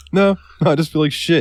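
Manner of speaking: high-pitched acted denial; protesting. Answering coworker asking if he quit, high protesting voice. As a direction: pitch jumps up, insisting.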